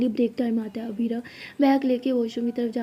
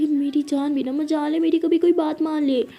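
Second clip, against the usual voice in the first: higher, louder fond exasperation; exasperated grumble; 4 semitones higher, 5 dB louder than usual. Acted. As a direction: complain about a stubborn sweetheart. Exasperated at partner who won't listen.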